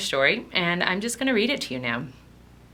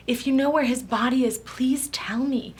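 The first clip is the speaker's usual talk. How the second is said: higher, imploring voice, slowing at the end; pleading; 4 semitones higher, 4 dB louder than usual. Retold or imitated. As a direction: beg on her behalf, drawing out the plea. Voicing Mary begging for his body.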